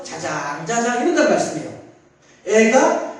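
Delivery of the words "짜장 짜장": lulling hush. Retold or imitated. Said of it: "하면서".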